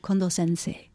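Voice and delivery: Kondo-sensei said as in Japanese, with pure vowels; Japaneseified pronunciation. Shown as a demonstration. Honoring the tidying master, Japanese pronunciation. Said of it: "if I can really Japaneseify it".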